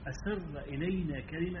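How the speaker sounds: slow and soft, almost in the ear; hushed, confiding. Shown as a demonstration. Preacher quoting the companion about the private word, hushed. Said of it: "إشارة إلى أن دي رخصة".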